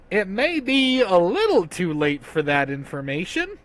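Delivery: mild awkward hedging; sheepish admission. Acted. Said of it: "has been accumulated and goes".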